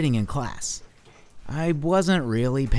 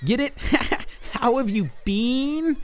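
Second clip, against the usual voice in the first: higher, punning cool bean; jokey pun; 11 semitones higher than usual. Acted. A cool bean cracking a pun, higher and grinning. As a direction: sell the bad pun with a grin.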